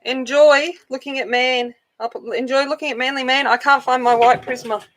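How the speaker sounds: high-pitched, playful distress; mock panic. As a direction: announce it like a hammed-up emergency. Announcing mock emergency, leaving to search.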